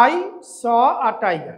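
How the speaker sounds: slow dictation. Shown as a demonstration. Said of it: "তোমরা যে voice change করেছো".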